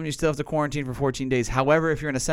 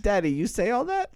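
higher, childlike imitation of his son; kid voice; 7 semitones higher than usual. Dad retelling his son asking, in a kid voice. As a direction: play the little boy asking his dad. Kid's question retold by dad.

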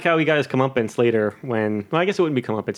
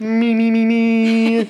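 Kermit the Frog; 6 semitones higher, 4 dB louder, much slower than usual. Pretend. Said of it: "I could do a nice Kermit".

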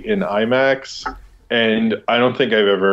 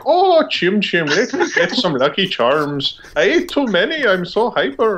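put-on hyper kid; 8 semitones higher than usual. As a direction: play the kid high on candy. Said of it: "and he's like".

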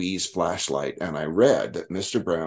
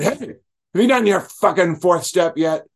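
high, loud challenge; loud confrontation; 10 semitones higher, 5 dB louder than usual. Retold or imitated. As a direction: call him out in front of everyone. Bob confronts him mid-rant.

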